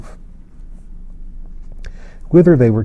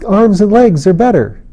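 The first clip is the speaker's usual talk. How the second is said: put-on high, louder eager child explaining; a wild little boy bragging to the king about his nest; wild excited child; 8 semitones higher, 4 dB louder than usual. A narrator's reading. Child character voice.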